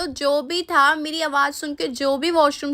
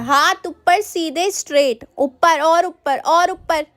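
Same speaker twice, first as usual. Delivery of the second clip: stern teacher's order; slower than usual. Acted. Angry teacher ordering a punishment.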